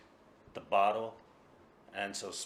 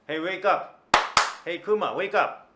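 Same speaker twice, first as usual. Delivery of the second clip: higher and louder wake-up call; 9 semitones higher, 13 dB louder than usual. Acted. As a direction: rouse a sleeping friend. Waking sleeping friend.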